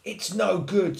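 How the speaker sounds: high, loud little complaint; lightly voiced self-pity; mildly sniffly cub. A narrator's reading. Little Lion giving up to Mouse, mild high sniffle. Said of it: "sniffled Little Lion".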